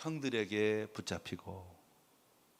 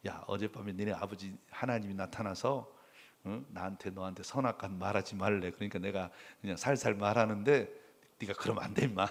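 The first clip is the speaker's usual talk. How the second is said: scared Laban; 5 semitones lower, 3 dB quieter than usual. Retold or imitated. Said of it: "완전 확 쫄아가지고".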